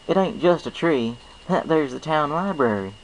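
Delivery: folksy farm pony, friendly and sure; Applejack. Acted. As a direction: play a cheerful country mare with a twang. Applejack's voice in story.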